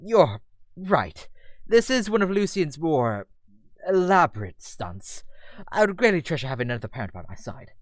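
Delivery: formal, courteous British gentleman; British Damien. Acted. Damien accepting another dad's company, courteous British voice. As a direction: accept help graciously in a British accent. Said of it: "British as Damien's".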